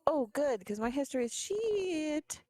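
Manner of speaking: whiny high complaint; mock despair. Real, not acted. Player groans at bad roll.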